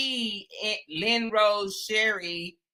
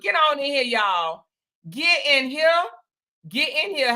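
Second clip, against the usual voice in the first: higher, hyped welcome; calling everyone in; 6 semitones higher than usual. Real, not acted. Host hyping viewers to join the live stream. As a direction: beckon the crowd in with energy.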